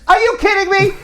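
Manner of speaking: mock angry wife. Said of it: "she looks at him and says".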